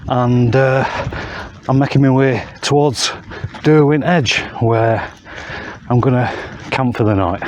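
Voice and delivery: panting between phrases; out of breath. Real, not acted. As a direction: talk while catching your breath. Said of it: "Sorry, I'm a bit out of breath".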